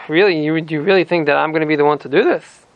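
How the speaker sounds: mildly taken aback, pitch leaping near the end; a retold, incredulous question. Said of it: "is a little bit taken aback".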